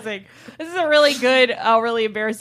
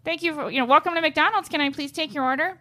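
drive-thru worker; 6 semitones higher than usual. Retold or imitated. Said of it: "to the little speaker".

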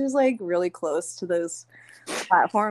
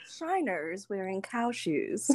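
put-on old-timey news voice; 7 dB quieter, slower than usual. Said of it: "old-timey news voice".

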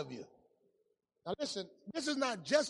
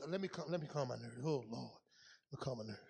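mock plea; 7 semitones lower, 9 dB quieter, faster than usual. Mocking a nervous smoker.

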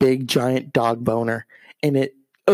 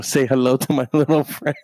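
laughing quote. Retold or imitated. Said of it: "and my aunt".

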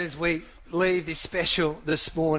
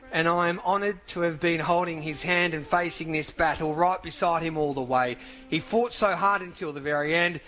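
solemn statement reading. Acted. Host reads the widow's statement on air, solemn and measured.

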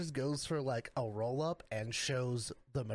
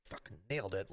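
smug self-praise; 7 semitones lower, 4 dB quieter, faster than usual. Retold or imitated. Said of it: "he was like".

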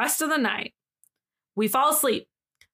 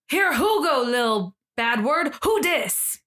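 mock scream; 3 semitones higher, slower than usual. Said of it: "he, he screams it".

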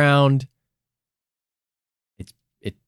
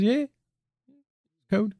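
mock UK alien; 11 semitones higher, 3 dB quieter than usual. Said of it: "our various UK accents".

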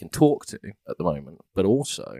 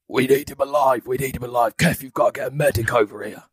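man down shout; 4 semitones higher than usual. Acted. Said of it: "I'm gonna just shout to anybody that can hear".

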